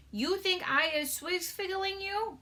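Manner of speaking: high, slow giant voice tripping on the word; a gentle giant fumbling his made-up word; BFG voice, stumbling. Acted. Giant asking Sophie, fumbled first take. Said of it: "that one was hard".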